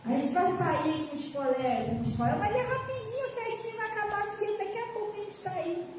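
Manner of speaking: hint of a carefree girl reassuring her worried mother; carefree daughter. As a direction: mimic her shrugging it off, a touch airy. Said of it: "E ela, nada".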